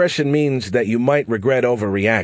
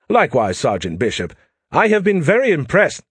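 put-on an Englishman fumbling with his phone, British accent; 7 semitones higher, 4 dB louder than usual. Diplomat replies.

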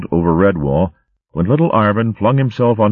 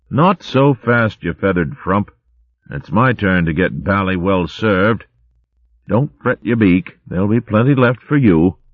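a hint of a jolly old-chap hare; lightly voiced posh hare; 4 semitones higher than usual. Clecky chatting to Gerald in the line, cheery. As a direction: bluster like a cheery hare officer.

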